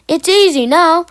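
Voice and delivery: high, loud gleeful boast. A narrator's reading. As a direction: crow about it. Engine gloats.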